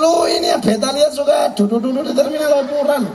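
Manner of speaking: Javanese cop in Kupang dialect. Retold or imitated. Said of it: "Yang pukul katong polisi Jawa, tapi logat Kupang".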